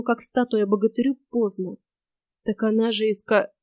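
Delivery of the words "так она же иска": stops dead inside «иска-»; broken off. A narrator's reading. Bogatyr starts to explain, breaks off at «иска-». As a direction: begin explaining, then cut «иска-» off mid-word. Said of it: "начал было он и снова умолк".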